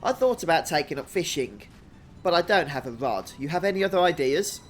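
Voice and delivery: hearty, lilting fisherman-to-be, lightly acted; lightly voiced game character. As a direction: greet an old helper in a light character voice. Reads game character Ruxel's dialogue aloud.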